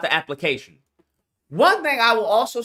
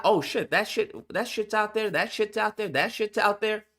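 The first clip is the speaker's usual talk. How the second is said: 1 hushed amazed discovery; 6 dB quieter than usual. Retold or imitated. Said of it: "you start finding out".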